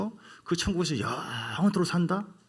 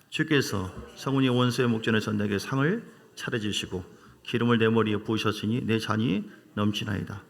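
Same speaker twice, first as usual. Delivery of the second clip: psalm recitation. Acted. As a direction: read it out together like a confession of faith. Congregation reads psalm aloud. (함께 시편을 낭독하는 목소리)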